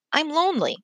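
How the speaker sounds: put-on breathy little-girl whisper; a sad small child breathing it out. A narrator's reading. Lonely girl at the fence to herself, whispered. Little girl's body language.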